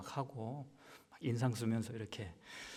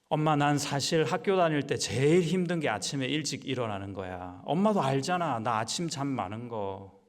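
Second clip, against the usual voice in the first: put-on louder, pleading child voice; whiny child; 6 dB louder than usual. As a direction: plead like a child who hates mornings. Child complains to mother.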